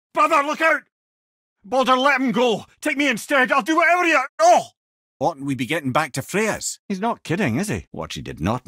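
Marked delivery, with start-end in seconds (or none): 0.1-4.7 high, loud frantic plea; desperate shouting. Acted. Brother pleading to spare Baldur, loud desperate cry. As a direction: cry out to save him, begging.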